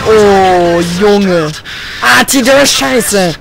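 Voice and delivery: angry shout. Real, not acted. Artillery hits his tank.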